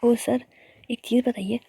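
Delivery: scolding. Acted. Ritika scolds Sammy about work.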